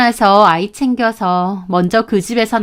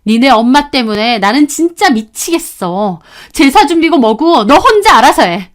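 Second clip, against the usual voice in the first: furious outburst; 4 semitones higher, 3 dB louder than usual. Acted. Wife furious at her husband.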